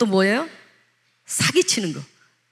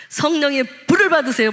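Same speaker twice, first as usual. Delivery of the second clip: fervent exhortation; 4 semitones higher than usual. Shown as a demonstration. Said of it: "막 이 소리를 제가 이렇게 하고 싶어요".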